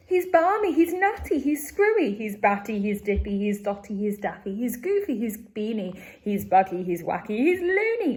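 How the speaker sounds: loud panicked list, fading then rising; frightened shouting. Acted. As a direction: rattle off the insults in fright. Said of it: "frightened shouting".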